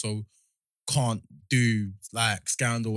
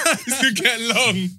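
acted inner voice; 11 semitones higher, 7 dB louder, slower than usual. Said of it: "He's like".

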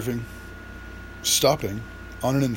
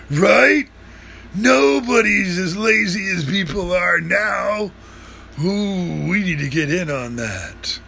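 excited; 3 semitones higher, slower than usual. Acted. Dude excited by the scam idea.

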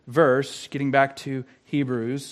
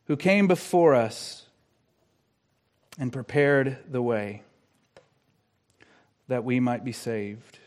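measured phrases with long pauses; solemn preaching; 4 semitones lower, 4 dB quieter than usual. Real, not acted. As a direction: voice settling softer and lower. Refrain settles into solemn close.

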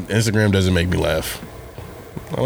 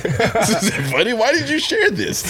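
angry laughter; 10 semitones higher than usual. Retold or imitated. Mock scolding old Facebook friend.

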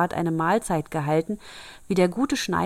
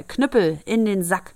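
called command; 3 semitones higher, 5 dB louder than usual. Acted. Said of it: "Dann rief er".

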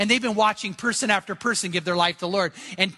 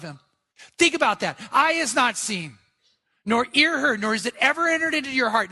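raised pitch with stretched key words; emphatic preaching; 4 semitones higher than usual. Real, not acted. Preacher asking listeners if this is their life, emphatic exhortation. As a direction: drive the verse home to the congregation.

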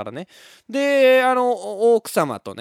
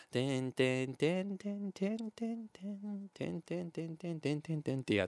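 soft piano plink imitation; 3 semitones higher, 13 dB quieter than usual. Imitating piano playing twinkle star.

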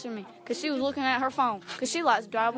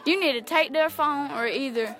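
lecturing coach; 4 dB louder than usual. Retold or imitated. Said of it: "driver's ed, he said".

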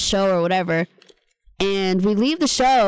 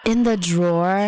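incredulous; slower than usual. Real, not acted. Friend reacting in disbelief.

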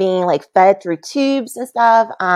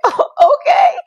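resigned mock okay; 4 dB louder than usual. Resigned reply to doctor.

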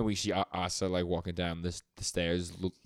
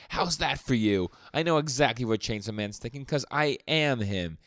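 evil tirade; 4 semitones higher than usual. Retold or imitated. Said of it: "He has, like, an evil tirade".

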